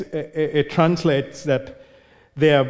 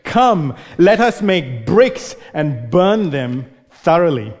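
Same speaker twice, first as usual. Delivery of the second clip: eager call to build; 3 dB louder, slower than usual. Acted. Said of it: "man says to the other man".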